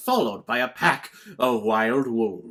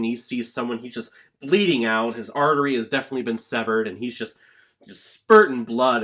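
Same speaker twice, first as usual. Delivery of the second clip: ordinary talk, nothing marked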